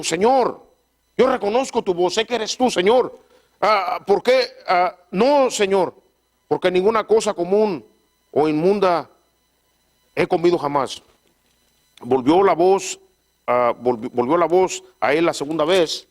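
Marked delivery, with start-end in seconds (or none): 0.0-11.0 Peter voiced higher, earnest and pleading. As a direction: plead with the Lord as Peter, pitched up. Pedro answers the Lord.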